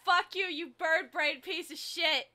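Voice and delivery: lightly nasal cartoon kid; a hint of a whiny nasal boy; Craig Tucker voice. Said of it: "I have to go to the stupid nasally voice".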